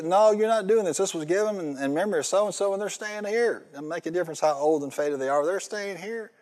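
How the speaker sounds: high, firm mock scolding; bossy church lady. Lady telling the convert the flowers stay, mock bossy. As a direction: play the prim lady guarding the memorial.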